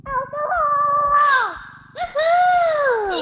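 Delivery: excited. Real, not acted. Cheering in game.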